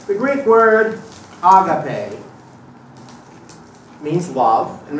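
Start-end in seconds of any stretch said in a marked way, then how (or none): 1.4-2.2 "agape" as ah-gah-PAY, with the last syllable stressed and held long. Shown as a demonstration. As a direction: lean on the end of "agape". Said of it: "I like to put the emphasis on the last syllable".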